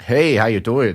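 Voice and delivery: put-on South African greeting; hammed-up South African accent. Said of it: "so I did a South African accent".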